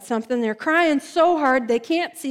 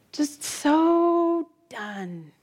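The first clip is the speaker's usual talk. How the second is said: utterly done; 3 semitones higher, much slower than usual. Retold or imitated. Exhausted resignation.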